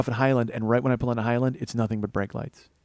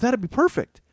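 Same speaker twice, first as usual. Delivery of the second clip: high, delighted wife imitation; excited scheming; 11 semitones higher than usual. Wife delighted by her own plan, high excited imitation. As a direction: gush in a raised pitch.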